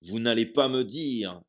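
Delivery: loud roaring giant; roared. Acted. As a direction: roar it at the Dursleys. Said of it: "rugit Hagrid".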